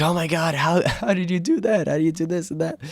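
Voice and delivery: high, laughing disbelief at friends' bad shots; laughing, amazed at how badly they play; incredulous laughing mock. Teasing friends in a golf game, laughing disbelief. Retelling mocking friends who suck.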